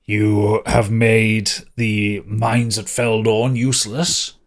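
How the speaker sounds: lightly voiced self-important official, slow and deliberate; a hint of drill sergeant reading out charges slowly; drill-sergeant magistrate. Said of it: "as if he was some kind of drill sergeant".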